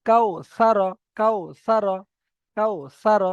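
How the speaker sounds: কাউ সা র read softly and quickly, no stretch. Shown as a demonstration. Teacher demonstrating the lin sound to students. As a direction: glide through কাউ without a drawn vowel. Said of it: "নরম আওয়াজে তাড়াতাড়ি পড়তে হবে".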